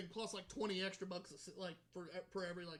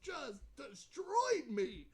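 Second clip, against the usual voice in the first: helpless high-pitched laughter; laughing; 7 semitones higher, 4 dB louder, much slower than usual. Real, not acted. Comedian cracks up at his grandma story, laughing. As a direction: break up laughing mid-word.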